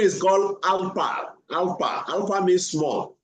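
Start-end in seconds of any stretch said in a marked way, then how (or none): 0.0-2.1 "Alpa" with an open a in both syllables, Sanskrit style; Sanskrit pronunciation. Shown as a demonstration. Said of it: "But in Sanskrit".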